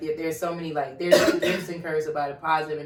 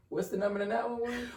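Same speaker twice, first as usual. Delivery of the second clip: quiet question; 6 semitones higher, 6 dB quieter than usual. Retold or imitated. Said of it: "And you say ... out loud".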